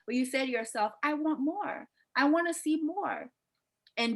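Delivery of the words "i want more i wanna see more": raised pitch, wistfully insistent; inner wanting. Acted. Woman saying to herself she wants more, lightly acted. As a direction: voice a private wish for more.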